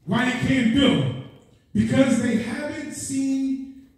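rolling, insistent sermon questions; urgent pulpit exhortation; impassioned preaching. Real, not acted. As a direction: press the congregation like a fired-up preacher. Preaches at full force.

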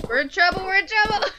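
high, loud mock panic, rising; playful alarm. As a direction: squeal it like a kid caught out. Reacts to getting caught in class.

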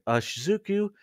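high, bewildered exclamation; crying out. A narrator's reading. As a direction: cry it out high, stretching the question slowly. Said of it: "you cried".

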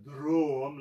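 DROM, drawn out like a mock vomit. Shown as a demonstration. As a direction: say DROM as if retching it up. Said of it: "like you're vomiting".

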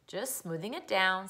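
mildly dreamy, slow reply. Acted. Mother puts off her suspicious son, mildly dreamy. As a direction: take it slowly with a hint of a smile. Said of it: "said his mother, smiling dreamily".

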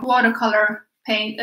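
usual speaking voice

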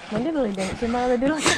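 rattled off quickly; fast tongue twister. Shown as a demonstration. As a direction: race through the tongue twister. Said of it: "I want to say that three times".

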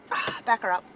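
ordinary talk, nothing marked

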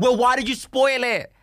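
high, loud imitation of indignant followers; mock outraged complaint. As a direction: complain loudly in a high mocking voice. Mimics followers complaining about spoilers.

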